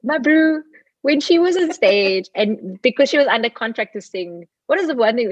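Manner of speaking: exasperated fan rant; mock indignant. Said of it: "I'm like".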